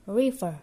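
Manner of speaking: "River" with the R kept inside the mouth; tucked English R. Shown as a demonstration. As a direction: repeat "River" as a model, R untrilled. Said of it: "kita simpan di dalam mulut".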